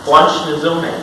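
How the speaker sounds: blanchizomai, each syllable tasted; savoring the Greek word. Shown as a demonstration. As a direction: roll blanchizomai out with relish. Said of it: "which is just fun to say".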